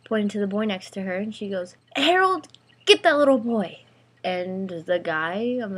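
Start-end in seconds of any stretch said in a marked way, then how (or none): 2.0-3.8 high, loud yell for backup; shriek. A narrator's reading. Girl to the boy next to her, shrieking. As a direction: shriek it out like an order. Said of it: "but she shrieked".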